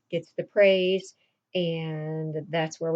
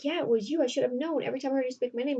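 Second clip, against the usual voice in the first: higher-pitched insistent retelling of a heroine; insistent realization; 6 semitones higher, much faster than usual. Acted. Roxanne confronts Cyrano about his secret, insistent. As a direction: voice her accusing him in a raised pitch.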